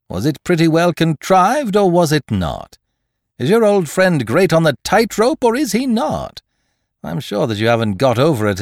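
lightly voiced teasing schoolboy manner; a hint of schoolboy swagger, teasing; mock schoolboy banter. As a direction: needle the young man like a cheeky schoolboy. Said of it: "the schoolboy ways and accent which Lupin was putting on".

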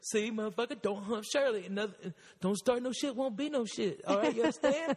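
mock scolding lecture to the dog; a playful owner wagging a finger at his dog. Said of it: "And I was like".

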